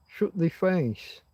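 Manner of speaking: slow broad Yorkshire "shut thee face"; Yorkshire dialect. Shown as a demonstration. Demonstrating Yorkshire dialect, slow broad Yorkshire. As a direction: drawl it out like a Yorkshire lad. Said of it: "We have thee and thou and thy".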